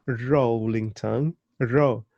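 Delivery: rolling and Ro with a drawn-out, emphatic r; rolling, Ro: slow demonstrated r. Shown as a demonstration. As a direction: lean on the R in rolling and Ro. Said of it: "use the R".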